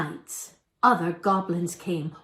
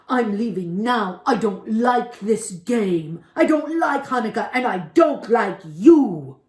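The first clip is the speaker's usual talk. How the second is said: a louder, sulking goblin; goblin voice, sulky; 6 dB louder than usual. Acted. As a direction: grumble your way out the door. Goblin storms off angrily.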